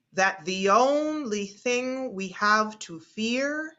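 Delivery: slow speech reading with long drawn vowels; elongated vowels. Shown as a demonstration. Teacher leading the group through a famous speech, slowly. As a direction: stretch each bolded word like an orator. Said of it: "whenever we get to a bolded word, we'll elongate it".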